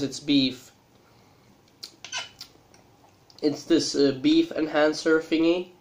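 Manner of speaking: speaking between bites; talking while chewing noodles. Real, not acted. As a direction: mouth partly full of food. Seen 3: Face visible; keeps eating noodles from pot, fork at mouth throughout.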